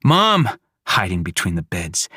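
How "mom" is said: put-on a child's frightened cry of Mom, higher and louder; calling out. Small boy hiding, calling his mother loudly. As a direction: cry out for her.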